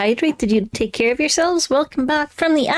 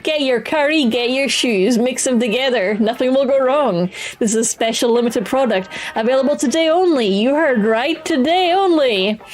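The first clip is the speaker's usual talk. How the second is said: hammed-up TV shopping ad read; infomercial pitch. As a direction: sell it like a late-night shopping channel host.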